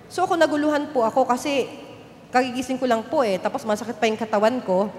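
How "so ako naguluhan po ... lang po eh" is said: usual speaking voice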